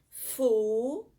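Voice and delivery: teacher splitting futebol into syllables for the class. Shown as a demonstration. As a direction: clap out Fu-te-bol for the pupils. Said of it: "Vamos separar a palavra futebol".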